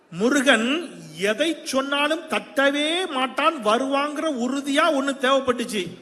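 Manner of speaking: high, drawn-out declamation; Avvai's declaration. Acted. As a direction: stretch the key words like a stage proclamation. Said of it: "அப்ப அவ்வை சொன்னா". (அவ்வையாக உயர்ந்த குரலில் நீட்டி முழங்குதல்)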